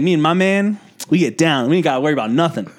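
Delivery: boastful Southern nurse; imitated sassy Southern patter; southern accent. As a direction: brag with a Southern twang. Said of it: "southern accent".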